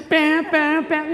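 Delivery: loud, high mock alarm; alarm noise. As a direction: sound the alarm with punchy bams. Imitates the bozo alert alarm.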